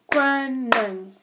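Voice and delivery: "koning" slowly, in two separated syllables; "koning" with a break between its two beats; broken into syllables. Shown as a demonstration. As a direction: draw out each syllable of "koning". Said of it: "words that have at least two syllables".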